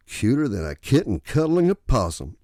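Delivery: bright sarcastic chirp; chipper sarcasm. Acted. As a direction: fake cheer dripping with sarcasm. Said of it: "with a chipper tone dripping with sarcasm".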